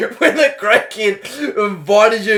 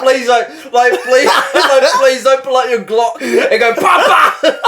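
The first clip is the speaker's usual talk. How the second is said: grovel comically to the gunman; mock apology; 3 semitones higher than usual. Friend voicing a groveling plea to the drug dealer, mock apology. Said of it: "that real, like, sorry shrug".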